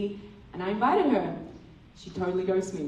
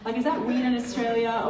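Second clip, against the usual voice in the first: anxious inner monologue. Retold or imitated. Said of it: "literally role-playing this in my mind".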